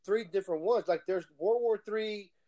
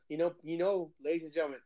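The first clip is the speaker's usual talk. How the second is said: imitating a YouTuber; 6 semitones lower than usual. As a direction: lightly mimic a calm YouTuber scolding his viewers.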